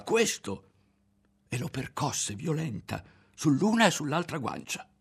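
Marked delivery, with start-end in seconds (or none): 0.0-0.7 very high-pitched angry cry; high furious scream; yelling. A narrator's reading. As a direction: shriek the word in rage.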